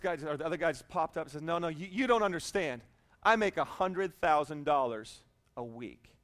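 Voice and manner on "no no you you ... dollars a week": low, laid-back reassurance; totally calm. Acted. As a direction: play the unworried friend, unhurried. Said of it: "totally calm".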